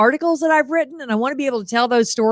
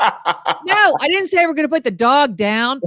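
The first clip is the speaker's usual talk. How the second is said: mock grouchy; 4 semitones higher than usual. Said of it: "And so I might be yelling".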